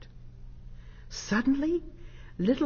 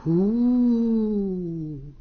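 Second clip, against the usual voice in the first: gentle owl hoot; 5 dB louder than usual. A narrator's reading. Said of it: "this time more gently".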